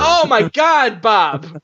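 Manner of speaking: high, drawn-out exasperation; exasperated outcry. Real, not acted. Host to cohost who got around the voting rules, exasperated. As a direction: cry out slowly in exasperation.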